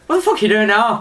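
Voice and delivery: lightly put-on Irish accent. Voicing sleepy Alfie woken by a moved pillow, Irish accent. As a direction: voice a grumpy riser with a hint of Irish. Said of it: "Don't know why he's got that Irish accent".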